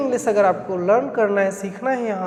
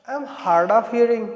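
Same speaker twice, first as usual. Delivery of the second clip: slow model sentence; much slower than usual. Shown as a demonstration. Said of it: "उनके लिए ये specially है".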